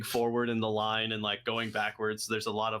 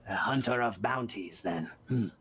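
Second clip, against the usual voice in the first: rasping voice; 2 semitones lower than usual. Acted. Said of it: "weird rasping voice".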